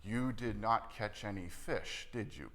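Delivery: slow and stern, each word spelled out; a formal teacher setting up a lesson. Shown as a demonstration. Preacher showing Jesus as a formal teacher, slow and stern. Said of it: "very formal".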